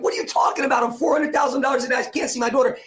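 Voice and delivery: imitating his younger self's anger, half-shouting "four hundred thousand dollars"; retold angry outburst. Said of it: "my emotion was anger at first".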